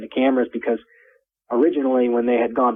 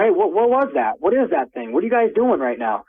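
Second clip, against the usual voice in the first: higher, urgent calling across the yard; retold yelling over; 5 semitones higher than usual. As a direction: call out across to the men, demanding. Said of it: "I'm yelling over".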